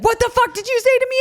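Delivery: high mock outraged bark; outraged coach. Coach confronting player who cussed, mock outrage. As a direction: play the coach's shocked fury. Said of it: "And he's like".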